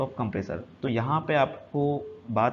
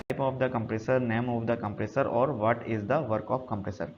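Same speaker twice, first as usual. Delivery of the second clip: reading the heading word by word, slowly; slow slide reading; much slower than usual. Acted. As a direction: spell out the slide title slowly for students. Reads slide heading in English. (धीमे-धीमे slide पढ़ना)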